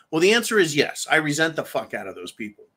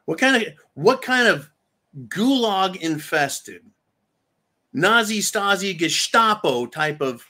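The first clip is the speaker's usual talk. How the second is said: outraged rant; 2 semitones higher than usual. Real, not acted. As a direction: spit out each regime name.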